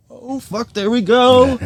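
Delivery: excited outburst. Retold or imitated. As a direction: jump on it like you just spotted game. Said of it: "we always see something like".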